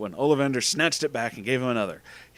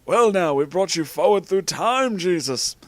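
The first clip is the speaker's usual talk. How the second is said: raised, projecting wizard voice; higher, theatrical character voice; Dumbledore explaining; 7 semitones higher, 5 dB louder than usual. A narrator's reading. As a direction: explain it high and grand.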